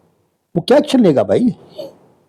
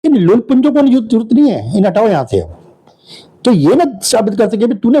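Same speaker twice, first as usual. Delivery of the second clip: mock higher-pitched telling-off, falling on the final order; imitated scolding; 5 semitones higher than usual. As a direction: act out an official's indignant rebuke. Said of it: "तो डंके कहते थे".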